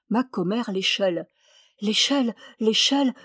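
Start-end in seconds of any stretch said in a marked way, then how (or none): 1.8-3.2 appel. A narrator's reading. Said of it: "s'écria-t-il".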